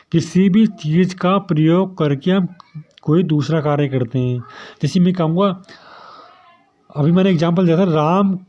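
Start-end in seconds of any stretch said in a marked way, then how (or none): 0.1-4.4 slower, with the stress on "भी"; slow, deliberate. Shown as a demonstration. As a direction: spell it out so students catch it. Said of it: "देखिए, क्या बोल रहा हूँ मैं". (धीरे और साफ़ दोहराना)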